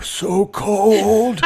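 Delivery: high, strained mock character voice; Data. Quoting Masks to mock the acting, high silly voice. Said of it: "watch Masks".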